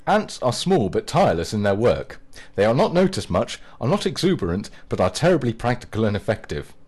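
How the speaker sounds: mock-earnest reading; a touch of solemn reading; read aloud. Shown as a demonstration. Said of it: "his profile begins".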